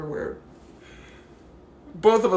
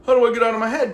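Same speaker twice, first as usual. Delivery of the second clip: mocking whine; 7 semitones higher, 10 dB louder, much faster than usual. Mocking viewers.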